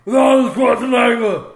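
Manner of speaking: spitting while talking; spraying spit on the words; spit take. Real, not acted. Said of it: "I literally just spit all over Larry".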